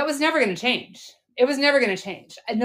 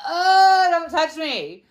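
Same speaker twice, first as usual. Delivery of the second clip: half-laughing recoil from husband at bedtime; retold disgust; 7 semitones higher, slower than usual. Wife to husband at bedtime, mock disgusted squeal. Recalling dreading husband at night.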